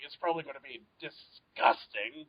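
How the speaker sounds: "disgusting" broken after the first syllable, softly; imitated hesitant delivery. Guest quoting the co-host's cookie warning, imitated halting "disgusting". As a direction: split "disgusting" with a halting pause, lightly mimicking. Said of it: "I just love the way how he said it".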